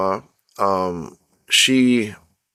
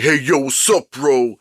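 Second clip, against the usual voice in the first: slangy bro greeting; 3 semitones higher than usual. Retold or imitated. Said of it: "you can't sound like".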